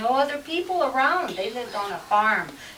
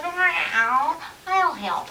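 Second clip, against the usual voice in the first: lightly voiced cat, higher pitch; storybook cat; 5 semitones higher, much slower than usual. Cat offers help with the turnip, higher mewing voice. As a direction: mew it like a helpful cat. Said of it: "the cat said".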